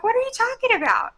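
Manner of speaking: high-pitched, baffled mock question; retold bewilderment. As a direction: act out clueless surprise, pitched well up. Retold bewildered reply to friends.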